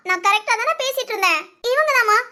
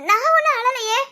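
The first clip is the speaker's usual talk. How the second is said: tearful denial; 3 semitones higher than usual. Real, not acted. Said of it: "அழுதேல".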